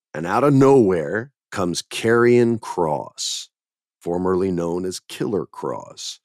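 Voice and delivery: slow dramatic entrance call; slow hammed-up announcement; slow announcer build. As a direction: stretch it out like a ring announcer. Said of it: "announcing an entrance".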